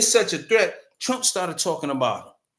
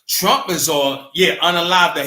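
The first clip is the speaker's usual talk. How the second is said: heated; 2 semitones higher, 6 dB louder than usual. Real, not acted. Heated retelling of Trump.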